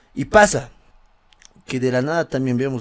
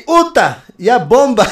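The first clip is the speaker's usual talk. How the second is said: lo dice entre risas; riendo; 7 semitones higher, 8 dB louder, slower than usual. Real, not acted. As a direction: suelta la frase riéndose. Lectura riendo de anécdota. (leyendo entre carcajadas)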